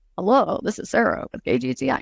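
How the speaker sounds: put-on creaky radio announcer voice, on-air style. Showing the voice people wrongly put on for radio, in a put-on radio voice. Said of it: "Changing your voice to have radio voice".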